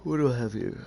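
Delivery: talking through a big, loud yawn. Real, not acted. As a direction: stretch the words out high as a real yawn takes over. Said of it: "Sorry about the yawning".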